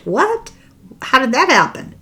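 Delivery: incredulous what. Real, not acted. Outraged at Hunt's involvement.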